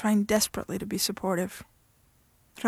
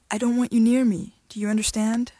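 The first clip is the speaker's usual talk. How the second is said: firm angry warning; 4 dB louder than usual. Acted.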